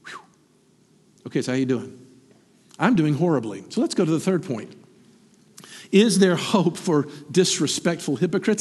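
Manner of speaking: normal talking voice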